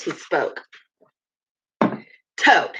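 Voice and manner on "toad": a stern, level call of his name; severe. A narrator's reading. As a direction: address him gravely, like a disappointed elder. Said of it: "he said severely".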